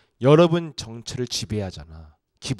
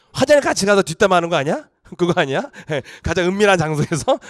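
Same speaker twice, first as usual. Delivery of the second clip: ordinary talk, nothing marked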